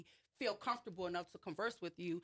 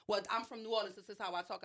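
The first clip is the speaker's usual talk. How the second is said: imitating a yelling officer, a bit louder; mild mock yell; 3 dB louder than usual. Officer answering why she yells, mild mock yell. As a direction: raise the voice slightly, as the officer. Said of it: "she's yelling at this point".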